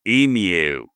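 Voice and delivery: emu in a hammed-up Australian accent; mock Australian emu; Australian accent attempt. Shown as a demonstration. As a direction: try emu like an Aussie. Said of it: "try to say it with an Australian accent".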